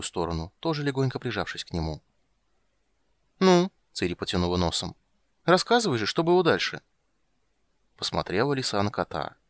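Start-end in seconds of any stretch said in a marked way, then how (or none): 3.4-6.8 put-on high, loud childish urging; a girl hungry for more; eager little girl. Ciri to Geralt, high eager urging. Ciri's voice.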